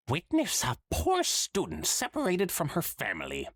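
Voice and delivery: high, hammy Trottingham spirit voice; a hammy Trottingham ghost, pitched high; bad Trottingham accent. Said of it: "the bad Trottingham accent".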